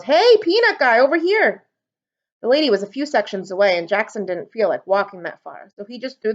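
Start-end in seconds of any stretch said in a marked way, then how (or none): 0.0-1.6 high, loud call across the stands. A narrator's reading. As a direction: wave the vendor over. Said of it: "a lady yelled".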